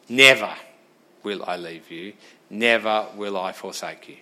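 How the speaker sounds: mock the promise as if it meant nothing; sarcastic. Shown as a demonstration. Preacher shows the congregation a dismissive reading, sarcastic. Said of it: "That's being sarcastic".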